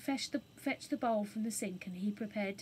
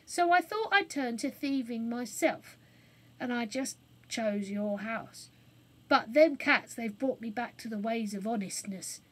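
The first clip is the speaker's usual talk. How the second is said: a hint of a cockney man; lightly voiced cockney burglar; rough burglar; 5 dB louder than usual. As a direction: confess a bit sheepishly. Burglar repents.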